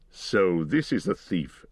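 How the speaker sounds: a slow, lightly voiced grave wizard; Gandalf. A narrator's reading. Wizard finding the thief, in a slow grave voice. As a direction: let the old wizard weigh the words slowly.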